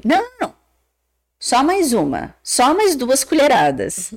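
acted pleading insistence; insistent mother. Mother coaxing child to keep eating.

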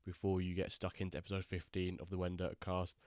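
ill, short of breath and sluggish; sick and lethargic. Real, not acted. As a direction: talk like you're sick and worn out. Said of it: "if I do sound like I'm constantly out of breath and I'm talking very slowly".

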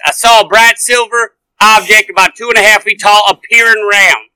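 reading with a light southern accent. Shown as a demonstration. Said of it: "the southern accent to it".

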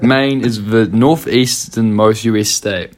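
measured, slow fact read-out; reading aloud. Real, not acted. Podcast host reading out a search result, slow read-aloud. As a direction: read it off the screen, deliberately and evenly. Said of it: "I'll read out the thing".

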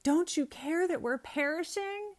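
panicked disciples. Retold or imitated. Disciples in the storm crying to sleeping Jesus, panicked. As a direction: cry out like men in a sinking boat. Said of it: "And they're like".

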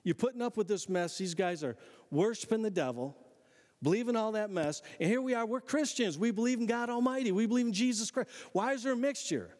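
rally the crowd half-shouting; mock yell. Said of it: "he yells at the church community going".

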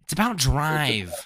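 very slow, drawn-out menacing line; mock Joker-style drawl; anime villain voice. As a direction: stretch each word like a creepy villain.

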